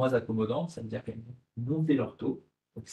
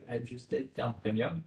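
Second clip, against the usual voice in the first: French-accented English; 3 dB quieter, slower than usual. Real, not acted. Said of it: "Excusez mon accent anglais qui est catastrophique".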